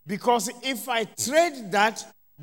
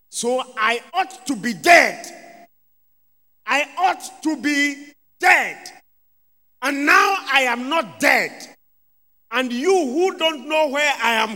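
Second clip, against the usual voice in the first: emphatic preaching; 3 semitones higher, 5 dB louder than usual. Real, not acted. Preacher building emphatic climax.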